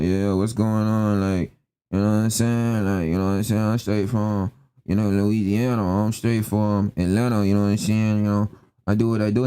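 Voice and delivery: low, mumbled mock Black American slang; mumbled slang imitation. Mocking African guys on the panel, mumbled slang imitation. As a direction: mumble through put-on street slang, mocking it. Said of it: "Why you mumbling?".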